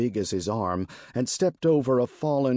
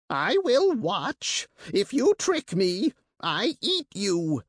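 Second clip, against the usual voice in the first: rasping creature; 10 semitones higher than usual. Acted. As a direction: rasp it out like a greedy bird beast. Monster threatens the party.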